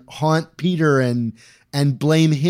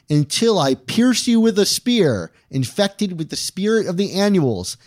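mock-epic vow; 5 semitones higher than usual. Mock-solemn vow before the motto.

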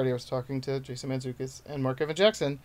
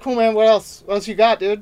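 higher, louder impatient showbiz type; hammed-up pushy booker pressing for more; mock demanding bookers; 7 semitones higher, 9 dB louder than usual. Bookers to comic, wanting more than jokes, mock demanding. Mimics demanding industry people.

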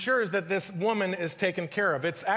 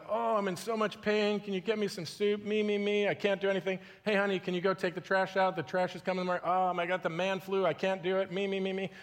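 man flu. Pretend. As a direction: moan like a pampered sick husband. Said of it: "when you get the man flu".

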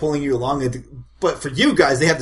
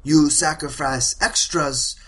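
slow and halting, building to loud; hammed-up elder reasoning out loud; village matriarch; 4 semitones higher, 7 dB louder than usual. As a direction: build to a high, triumphant proclamation. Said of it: "She's like".

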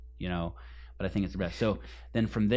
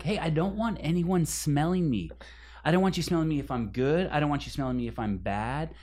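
raised pitch, ranting at his friend; exasperated rant; 5 semitones higher than usual. Retold or imitated. Retelling the bathroom rant to his friend, raised exasperated voice. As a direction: vent the frustration in a rising pitch.

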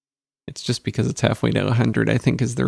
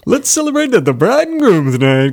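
loud, high cheesy announcer hype; wedding DJ voice; 7 semitones higher, 7 dB louder than usual. Retold or imitated. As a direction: pump up the crowd like a cheap wedding DJ. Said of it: "It's a good wedding D J voice".

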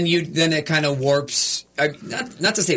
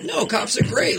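naive defence of cops; 10 semitones higher than usual. Retold or imitated. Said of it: "'Cause I'd be like".

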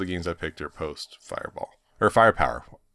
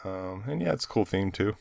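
talking with a whistling nose; a nose whistle on the breath; 5 dB quieter than usual. Real, not acted. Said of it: "Is my nose whistling?".

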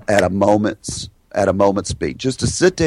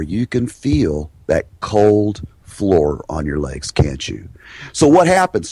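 hypnotic calming talk; 3 semitones lower than usual. Shown as a demonstration. Hypnotic relaxation talk to patient.

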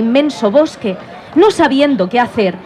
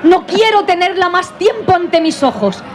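queen voice; 4 semitones higher than usual. Acted. Queen orders the hunter.

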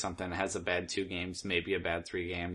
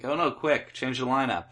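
higher, louder mock panic; 5 semitones higher, 6 dB louder than usual. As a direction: play a flustered manager, hammed up. Mocking panicked team managers.

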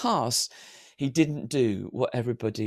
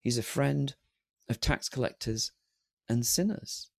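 soft, broken into pauses; savoured accolade; 7 dB quieter than usual. Shown as a demonstration. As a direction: quietly dwell on each phrase as an honour. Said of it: "What an accolade".

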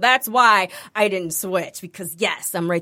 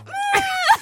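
high, wordless squeal; mock outburst. Showing friends why she reacts so, high mock squeal. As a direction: let out a high laughing noise. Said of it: "that's why I go".

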